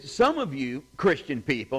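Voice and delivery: retold rebuke, setting the words apart; pointed pastor's rebuke. Pastor scolding his congregation from the pulpit, pointed imitation. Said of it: "he said it like that".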